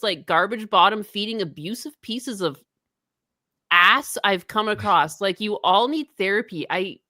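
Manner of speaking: lightly mimicked streamer rant; an understated take on an indignant streamer; P W R impression. Streamer telling detractors to get therapy, lightly mimicked indignation. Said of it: "you do a P W R impression".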